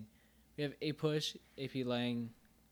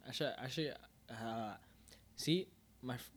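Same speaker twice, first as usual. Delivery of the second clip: tongue numb from ice cream; stumbling with a frozen tongue. Real, not acted. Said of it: "my tongue is frozen".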